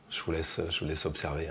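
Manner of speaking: soft hushed voice; right in your ear. Real, not acted. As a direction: murmur it close and low. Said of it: "Pas besoin de parler".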